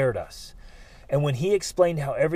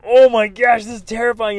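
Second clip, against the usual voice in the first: higher, louder gasp of fear; scared; 7 semitones higher, 9 dB louder than usual. Retold or imitated. Looking down from the bridge, loud frightened gasp. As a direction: gasp it at the drop below. Leaning over the bridge rail.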